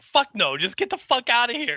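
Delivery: loud, high yelling Giles; mock Giles yelling. Giles throwing students out, loud high mock yell. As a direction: chase them out with a shout. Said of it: "Giles is like".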